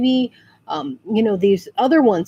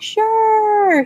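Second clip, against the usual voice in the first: agreeable mock reply; 10 semitones higher than usual. Imitates the obliging actor's answer.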